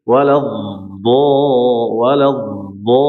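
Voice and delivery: "walad" then "Dha", each short and firm; letter contrast. Shown as a demonstration. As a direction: alternate "walad" and "Dha" crisply. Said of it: "Nggak mungkin".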